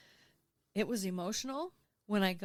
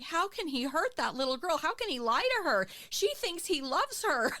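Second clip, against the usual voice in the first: higher, louder outraged yelling; 9 semitones higher, 4 dB louder than usual. Retold or imitated. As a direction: shout at the screen in disbelief. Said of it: "I just yelled at the T V".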